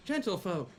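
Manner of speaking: announcer voice. Acted. Host proposing a toast to the fallen, announcer voice. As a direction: announce it with mock ceremony. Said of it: "lousy time to use that voice".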